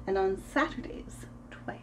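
whisper. Acted. Whispered aside in story.

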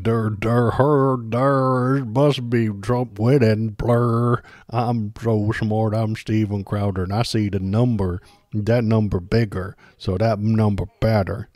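loud, dopey mocking voice, dragged out; dumb mocking voice. Streamer mocking Steven Crowder as a dimwit, loud dopey voice. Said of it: "And then he's like".

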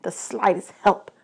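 lightly voiced, aggrieved god; bitter god of the dead. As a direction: let the outburst settle into restrained resentment.

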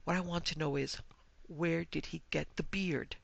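sobbed complaint. Acted. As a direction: pour out an acted tearful grievance. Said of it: "she sobbed".

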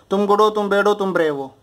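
"तुम गुड हो, तुम बैड हो" held up, "तुम ब्रेव हो" dropping to close; rhythm drill. Shown as a demonstration. Teacher showing students how to test brave, rhythm drill. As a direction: recite in a rhythmic three-part pattern. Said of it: "एक rhythm पकड़ो".

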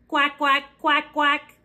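lightly voiced duck quack; a hint of a quacking duck. Shown as a demonstration. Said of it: "That's the sound a duck makes".

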